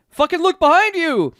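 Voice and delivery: high, loud mock yell; hammed-up shout at a sidekick; retold yell. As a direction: yell it like an urgent order, high-pitched. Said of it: "yells at his stand".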